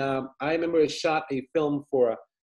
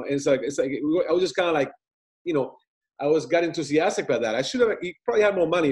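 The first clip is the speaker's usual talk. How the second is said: ordinary talk, nothing marked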